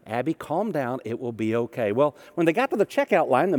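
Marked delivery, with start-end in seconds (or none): 0.0-1.9 lower, soft and steady; patient calm, no rise at all. Retold or imitated. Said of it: "says very calmly again".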